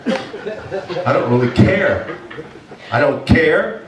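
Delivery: laughing through I don't care; laughing defiance. Real, not acted. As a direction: chuckle it off defiantly. Laughing defiance at God in rain.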